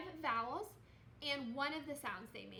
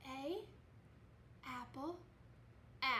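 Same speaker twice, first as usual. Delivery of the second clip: softer, held-back teaching voice; hushed model voice; 6 dB quieter than usual. Shown as a demonstration. Teacher leading pupils so they can say it loud, hushed. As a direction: softly lead the repetition, leaving room for the pupils. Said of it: "I'm whispering so you can say it loud".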